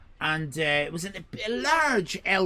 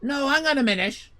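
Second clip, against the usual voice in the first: high, raised protest; 9 semitones higher, 4 dB louder than usual. Retold or imitated. Customer objecting to being thrown out. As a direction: object urgently. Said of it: "I said".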